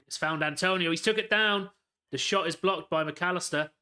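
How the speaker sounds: sudden urgent play-by-play; excited commentary. Real, not acted. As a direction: call the late chance live, voice climbing. Late West Ham chance live.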